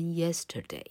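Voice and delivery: yesterday with a clear opening y glide; careful teaching take of yesterday; model pronunciation. Shown as a demonstration. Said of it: "老柯念给你听哦".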